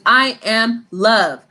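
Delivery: slow, measured affirmation spoken as a model; slow sincere self-affirmation; calm affirmation. Shown as a demonstration. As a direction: say it slowly, like a mantra to repeat. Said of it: "And your affirmation is".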